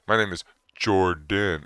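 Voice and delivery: "Jordan" drawn out syllable by syllable; exaggeratedly slow. Shown as a demonstration. Introducing himself as if they're stupid, exaggeratedly slow. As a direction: spell out "Jordan" slowly, as if to a slow listener. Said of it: "say it all slow like they're stupid".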